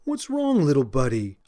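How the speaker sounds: a lightly voiced baby-talk coo; gentle coo. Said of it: "I cooed to the puppy".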